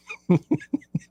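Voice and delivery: squeaky high giggle; high laugh. Real, not acted. Host laughing at his own story, high giggle. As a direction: let a high giggle escape.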